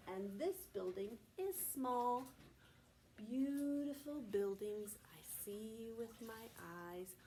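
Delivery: put-on slow, rhythmic poem for kids; reciting a nursery poem; poem recital. Shown as a demonstration. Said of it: "We say".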